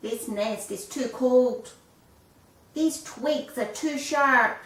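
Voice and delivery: high, loud, drawn-out whine of a spoilt chick; horrible whining voice.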